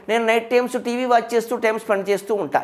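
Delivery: lightly mocking a modern youngster; mock Englishy young girl. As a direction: mimic the Telugu-English mix with a mocking lilt. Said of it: "ఇందులో తెలుగు ఎక్కడుందమ్మా?".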